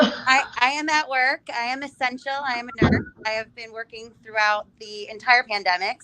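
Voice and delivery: muffled behind a hospital mask; through face mask. Real, not acted. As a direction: speak through a surgical mask. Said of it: "can you hear me with the mask on?".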